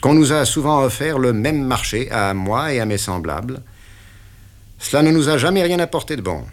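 the boss pinning down the deal; interrogating patron; stern boss. Acted. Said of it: "dit-il lentement".

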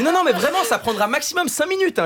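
high, pleading mock telemarketer voice with a laugh; insistent phone surveyor. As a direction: imitate the lady begging him to stay on the line. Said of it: "Elle m'a dit". (imitation d'une sondeuse insistante, voix aiguë et suppliante)

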